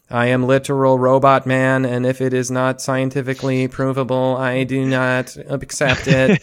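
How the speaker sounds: flat robotic voice. Retold or imitated. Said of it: "we've had Connor robot voice".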